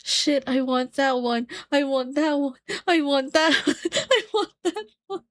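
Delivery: wanting. Retold or imitated. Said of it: "And I'm like".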